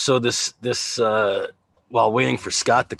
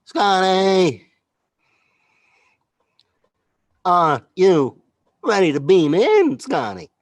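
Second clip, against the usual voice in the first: hammed-up loud call, higher; loud Star Trek call; 8 semitones higher, 6 dB louder, slower than usual. Calling Scotty to beam in, hammed-up loud. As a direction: call out like a starship captain.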